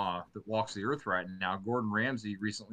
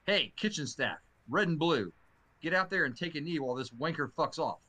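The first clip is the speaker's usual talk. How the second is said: raised-pitch mock order to kitchen staff; mock-stern chef rallying the staff; stern chef's order; 4 semitones higher than usual. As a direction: call out the quoted command, lightly acted. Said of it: "Ramsey said sternly".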